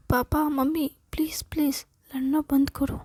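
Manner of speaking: lightly acted plea for peace; mildly exasperated pleading; pleading son. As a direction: beg the bickering parents to stop. Son begs parents to stop fighting.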